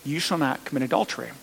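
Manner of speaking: slow the commandment down, spacing the words. Shown as a demonstration. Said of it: "Let me say it a little slower".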